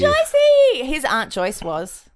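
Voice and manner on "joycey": high, loud drawn-out holler; yelling out. Retold or imitated. Yelling out to burping Aunt Joyce, high loud call. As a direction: shout the name through the house. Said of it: "people in the other room would yell out".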